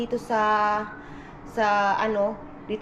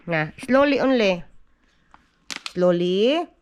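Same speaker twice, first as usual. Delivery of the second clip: firm coaching; 6 dB louder than usual. Real, not acted. Mother tells her toddler to hold the bottle properly, louder coaching.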